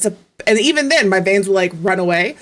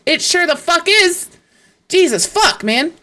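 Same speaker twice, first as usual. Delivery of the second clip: exasperated; 8 semitones higher than usual. Retold or imitated. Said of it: "I was like".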